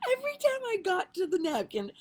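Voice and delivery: high, wheezing with laughter; real giggling while telling; still laughing. Real, not acted. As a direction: laugh through the words. Laughing at own napkin chase.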